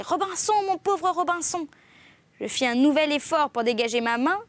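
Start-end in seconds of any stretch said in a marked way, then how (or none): 0.0-1.7 high, piteous wailing call; strident, tearful parrot. A narrator's reading. Parrot left behind calling its master, shrill tearful lament. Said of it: "plus stridente encore et plus éplorée".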